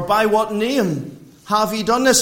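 "name" given extra weight within the question; stress on name. Shown as a demonstration. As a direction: lean on the word "name". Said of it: "you see the emphasis there. It's upon the name".

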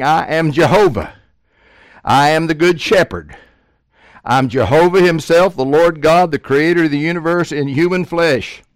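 loud, high proclamation; forceful preaching. Acted. Preacher voicing Jesus' claim to the crowd, loud.

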